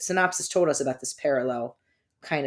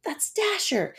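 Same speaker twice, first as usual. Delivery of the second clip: sudden recognition; 3 semitones higher, 4 dB louder than usual. Retold or imitated. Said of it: "And I'm like".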